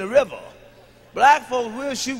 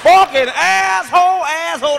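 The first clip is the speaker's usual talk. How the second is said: mock white cussing; 6 semitones higher, 7 dB louder than usual. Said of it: "like a white person".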